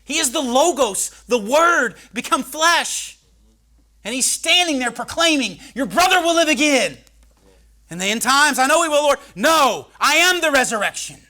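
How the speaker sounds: loud, high preacher's cry; preaching at full force. Acted. Preacher proclaiming to the congregation, full force. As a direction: proclaim it over the crowd.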